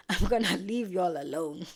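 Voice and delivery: loud, hammed-up huff; acted loud exasperation; exasperated outburst. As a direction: belt it out as a mock storming-off. Acted storming-off line.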